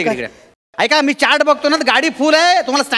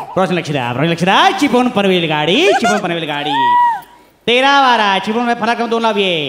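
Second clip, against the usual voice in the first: station announcer; 2 semitones lower than usual. Pretend.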